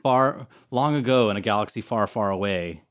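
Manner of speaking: lightly voiced epic movie opening crawl; playful nod to a space saga opening; mock Star Wars opening. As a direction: intone it like a film legend, a little grand.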